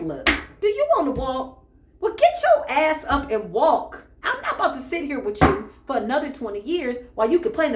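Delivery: mildly hammed-up tough-love scolding from Jesus; exasperated Jesus retort. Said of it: "Yeshua Shemashik was like".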